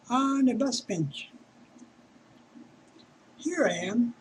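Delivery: measured poetry recital with pauses between lines; poem reading. Acted. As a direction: read it as verse, line by line. Reads own poem aloud.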